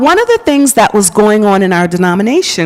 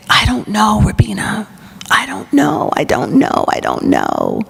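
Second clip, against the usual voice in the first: retold sobbing. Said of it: "I just began to sob".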